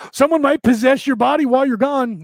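a high, fretful inner warning; worried ego voice. Retold or imitated. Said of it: "That's the ego saying".

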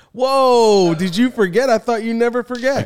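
high mock surprise; teasing. Real, not acted. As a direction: squeal the teasing disbelief. Teasing a forgetful co-host.

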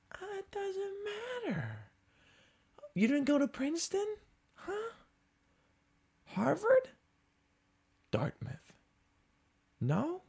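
high, soft, prissy condescending questions; mock high snooty voice. Comic to a Boston bragger, high mocking snob voice. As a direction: talk down like a snob quizzing him.

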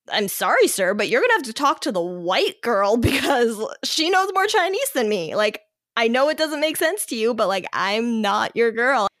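retold polite protest, pitch climbing midway; insistent, hammed-up apology with pitch swoops; exasperated mock apology. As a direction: playfully plead your way out of it. Acted apology to confused Chinese staff.

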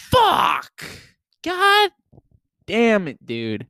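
high, loud reenacted cursing; exasperated mock shout. Driver reenacts seeing vomit on the car door, high shout. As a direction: yelp the curse in dismay.

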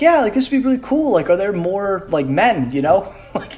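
put-on high, quick childish excitement; lightly voiced excited child; imitating eager kid. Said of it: "I was like".

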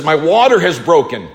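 understated cry of alarm. Acted. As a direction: call it out in sudden alarm. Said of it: "she cries out to me".

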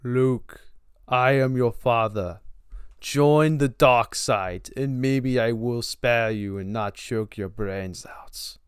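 quiet, looming Vader threat; Darth Vader. Acted. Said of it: "a dedication to James Earl Jones".

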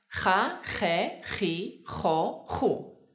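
Ja, je, ji, jo, ju with strong throat friction; exaggerated Spanish J. Shown as a demonstration. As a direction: overdo each J in Ja, je, ji, jo, ju. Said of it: "te animamos a que la exageres mucho".

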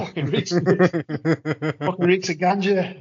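slow drawn-out mock disgust; hammed-up disgusted stranger; a stranger recoiling from the smell, slow and mocking; disgusted visitor.

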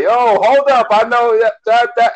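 excited recognition. Retold or imitated. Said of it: "And I was like".

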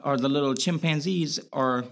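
slipping into a Boston accent. Real, not acted. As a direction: let the Boston accent creep in. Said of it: "you having your Boston accent right now".

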